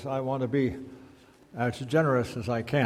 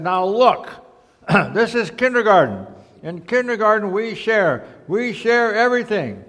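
higher-pitched teacher voice reciting the rule; a hint of a firm teacher; lightly voiced kindergarten teacher, instructing; 8 semitones higher, 9 dB louder than usual. A narrator's reading. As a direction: lightly play a teacher repeating a class rule.

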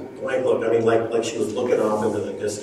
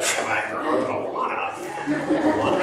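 mock disbelief; 2 semitones higher than usual. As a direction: act amazed anyone would ask. Incredulous at her question.

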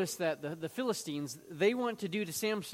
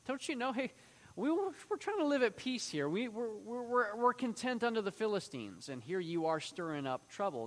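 much higher, fussy appeaser voice; mock whiny complaint; 6 semitones higher than usual. Preacher mimics Judah scolding Samson, in a higher whiny mock voice. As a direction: scold Samson like a timid peacekeeper. Mocking the content men of Judah.

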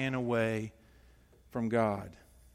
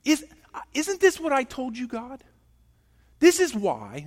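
angry complaint; 7 semitones higher than usual. Acted. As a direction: complain bitterly to God like resentful Jonah. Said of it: "Can you just hear him right now?".

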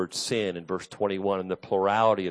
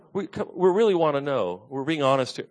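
sincere curious ask; 5 semitones higher than usual. Shown as a demonstration. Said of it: "don't think they were saying it like".

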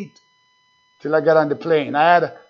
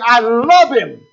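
heartfelt cry; 4 semitones higher, 6 dB louder, slower than usual. Shown as a demonstration. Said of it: "Your soul will cry out saying".

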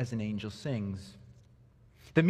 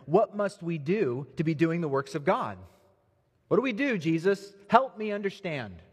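higher, pleading voice of the crowd; eager questioning crowd; 5 semitones higher than usual. Acted. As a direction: beg Jesus for an answer, voice lifting.

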